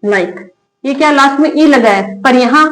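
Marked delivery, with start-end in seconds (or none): 0.0-0.5 soft repeat. Shown as a demonstration. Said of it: "जैसे ये क्या लिखा है".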